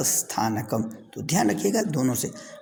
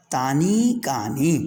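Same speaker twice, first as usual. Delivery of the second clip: slow teaching drill; 4 dB louder, slower than usual. Shown as a demonstration. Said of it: "तत् ते तानी बहुवचन में".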